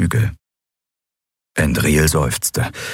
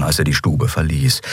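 ordinary delivery, nothing marked

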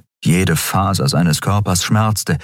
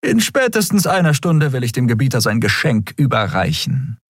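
stifled yawn; 5 semitones higher than usual. Acted. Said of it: "Sie unterdrückte ein Gähnen".

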